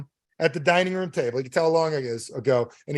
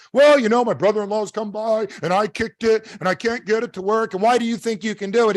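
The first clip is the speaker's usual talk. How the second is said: high-pitched acted caller's grumble; complaining customer; 6 semitones higher than usual. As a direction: pour out the problem, doubting the plumber. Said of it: "the guy tells his problem".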